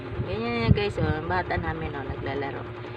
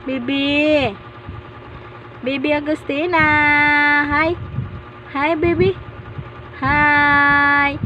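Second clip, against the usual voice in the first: put-on drawn-out singsong to a fussing baby; soothing baby talk; 3 semitones higher, 7 dB louder, much slower than usual. Parent hushing baby Agustina, singsong baby talk. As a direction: coax the baby out of crying with playful lilt.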